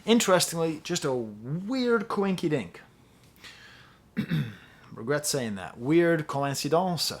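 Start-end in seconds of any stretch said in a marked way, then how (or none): 0.8-2.8 higher, drawn-out silly phrase; silly cutesy wordplay. Real, not acted. Reviewer making a joke he regrets, drawn-out and silly. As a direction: stretch it out playfully, pitched up.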